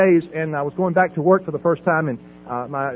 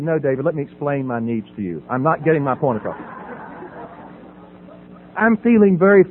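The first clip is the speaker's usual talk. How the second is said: calm treatment-speak; 6 semitones lower than usual. Retold or imitated. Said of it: "I'm cool".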